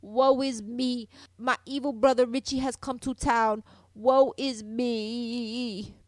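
slow, hammed-up lament of a damsel; slow, mock-tragic sobbing lament; mock melodramatic wailing. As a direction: overplay a swooning heroine's woe. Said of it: "she was crying and clutching at her breast".

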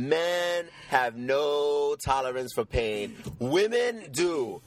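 slow emphatic statement. Real, not acted. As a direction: lay it down word by word. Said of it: "slow emphatic point".

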